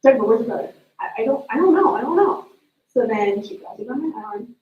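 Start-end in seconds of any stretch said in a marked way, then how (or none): 0.0-0.7 sharper, louder mom demanding an answer; a mom pressing her daughter, a bit louder; impatient mom. Retold or imitated. Mom demanding third time. 1.0-2.5 stammering, higher and a little louder; a scared child tripping over the words; flustered kid. Retold or imitated. Flustered kid answering mom.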